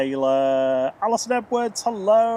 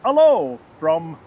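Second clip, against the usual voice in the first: slow, hammed-up French accent on hello from; a half-hearted French accent, stretched and slow; mock French accent; 7 dB louder, slower than usual. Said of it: "how to say that in a French accent".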